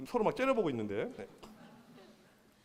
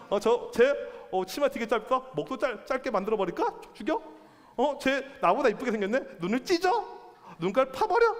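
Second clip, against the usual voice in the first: lightly acted jealous queen, pitch climbing with each threat; smiling, threatening queen; 4 semitones higher than usual. Queen eyeing a prettier woman, acted smiling menace. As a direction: size her up, then lift each threat higher. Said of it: "웃으면서".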